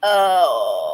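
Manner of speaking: loud pained "oh" groan. Real, not acted. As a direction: groan from numb hands. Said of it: "Hands are numb again".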